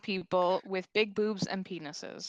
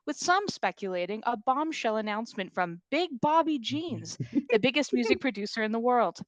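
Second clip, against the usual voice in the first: news anchor; 3 semitones higher, 4 dB louder than usual. Acted.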